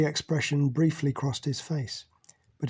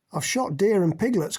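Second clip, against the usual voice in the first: raised and higher across the room; calling out; 5 semitones higher than usual. Acted. Carol calls out to Mac from the room, raised. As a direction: call it out proudly. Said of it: "called out Carol".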